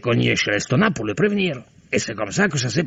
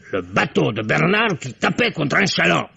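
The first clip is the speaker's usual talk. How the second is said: excited retelling; 4 semitones higher than usual. Acted. Excited retelling of spotting boat.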